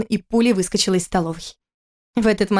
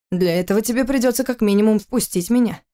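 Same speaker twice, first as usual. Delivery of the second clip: with a smirk; 3 semitones higher than usual. Acted. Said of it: "ответил он с усмешкой".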